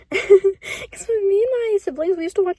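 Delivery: slow, close to crying; a real catch in the throat; voice cracking with tears. Real, not acted. Sad memory of childhood cartoon.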